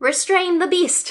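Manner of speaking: high, slow, barked delivery. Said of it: "The poacher captain barks".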